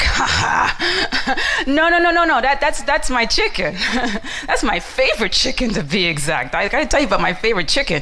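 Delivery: laughing it off, loud and amused; laughing dismissal. Acted. Friend laughing off the visitor's eagle claim, amused and loud. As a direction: chuckle as you wave the idea away.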